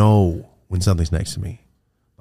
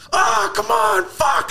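much higher, louder yelp of fright; startled yell; 5 dB louder, much slower than usual. Retold or imitated. Yelling when the clown ghost smiles at him. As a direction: blurt it out as if the clown just appeared. Sees the smiling clown figure.

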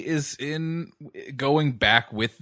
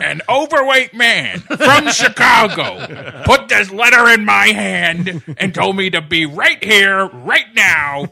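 fake Texas accent; 3 semitones higher, 7 dB louder than usual. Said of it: "He's doing a bad Texas accent".

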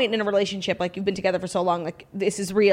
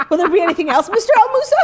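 high, loud laughing butler; hammed-up servant through giggles; 9 semitones higher, 8 dB louder, faster than usual. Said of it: "now you sound like a butler".

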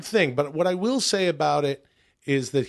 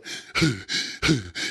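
imitated gasp; 3 semitones lower than usual. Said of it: "him going".

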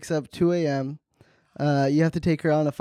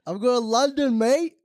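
put-on London accent; 5 semitones higher than usual. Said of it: "That's not a London accent?".

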